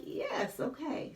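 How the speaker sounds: high-pitched, compliant reply; eager agreement. Retold or imitated. Retelling her answer to God's promise, eager agreement. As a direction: squeak out a willing yes, acted out.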